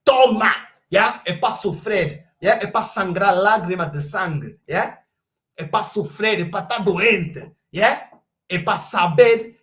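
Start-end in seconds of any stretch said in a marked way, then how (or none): 0.0-3.3 loud barked Toma; mocking shout at rival fans; shouted taunt. Real, not acted. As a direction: throw it at them with a yell.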